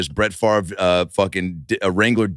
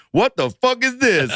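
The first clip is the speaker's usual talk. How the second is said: very high, slow, drawn-out disbelief; appalled security guard; slower than usual. Retold or imitated. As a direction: squeal it as a scandalized guard. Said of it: "the security guard's holding up the dildo".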